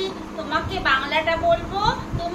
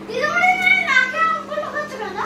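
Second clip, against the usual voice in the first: put-on child voice; 8 semitones higher, 4 dB louder than usual. Child voice teasing teacher.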